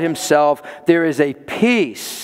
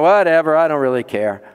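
mock indifference; 3 semitones lower than usual. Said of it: "That's counterfeit peace".

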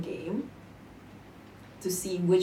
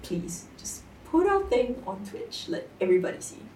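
begging. Retold or imitated. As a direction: plead lightly with friends. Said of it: "I begged my friends".

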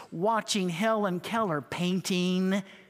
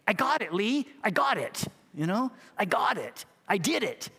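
excited sister; 3 semitones higher than usual. Retold or imitated. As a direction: play her thrilled cry of success, lightly acted. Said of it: "She's so excited".

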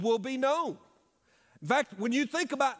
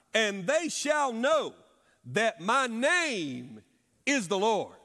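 slow, weighty reading of the verse; solemn scripture read; slower than usual. Acted. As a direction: read it like the voice of God. Reads scripture aloud.

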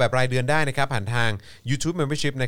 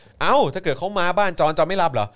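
retold question; 6 semitones higher, 5 dB louder than usual. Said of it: "จำได้ว่าอันที่ฮามากก็คือว่า".

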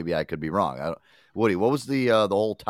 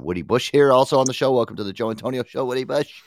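announcer voice; 4 semitones higher, 6 dB louder than usual. Acted. Host introducing guest on show.

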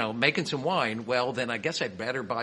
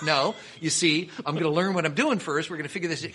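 higher-pitched mock reasoning; retold protest, pitched up for comedy; acted objection; 5 semitones higher, 4 dB louder than usual. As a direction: try to talk a pushy friend round. Acted arguing back with friend.

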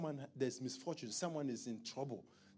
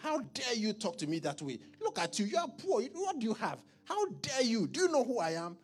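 high, loud taunting rich bully; mocking rich man; 10 semitones higher, 12 dB louder than usual. Preacher acting a rich man taunting the poor.

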